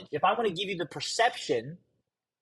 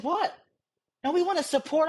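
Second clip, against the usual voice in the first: mock friends' reply; 10 semitones higher than usual. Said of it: "They said".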